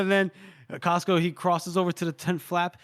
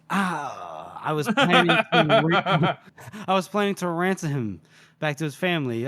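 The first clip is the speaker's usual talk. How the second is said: laughing Casca. Retold or imitated. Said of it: "And Casca goes".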